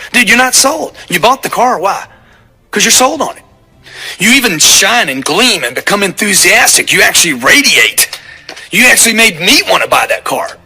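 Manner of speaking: fired-up lecture. Retold or imitated. Telling the finance guy he's not sold, fired-up and high. Lecturing the salesman in a retold talk.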